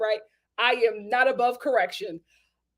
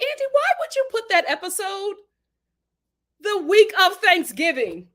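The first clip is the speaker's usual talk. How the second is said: whining at the producer, mock-outraged; mock complaint to producer; 3 semitones higher than usual. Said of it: "And I'm like".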